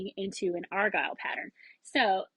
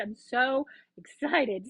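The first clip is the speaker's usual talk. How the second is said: slower, settled back down; calmer repeat; slower than usual. Real, not acted. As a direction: say it again, savouring it.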